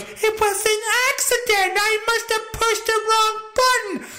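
high mock-meek wife voice; squeaky apologetic excuse; husband mimics wife's excuse; imitating the wife. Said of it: "she goes".

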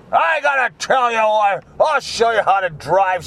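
lightly mock an earnest lecturing politician; Liz Warren imitation. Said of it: "That's my Liz Warren imitation".

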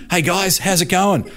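Bradley breezing in, all innocence; breezy greeting. Retold or imitated. Bradley's breezy entrance, acted out.

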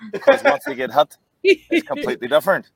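high-pitched mock panic; mock whimper of a hit actor; mock squeal. Mocking actors getting hit.

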